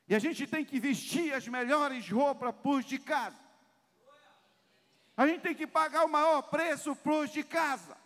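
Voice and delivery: loud, high, driving sermon voice; impassioned pulpit exhortation; preaching at full force. Acted. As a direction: hammer it home to the church.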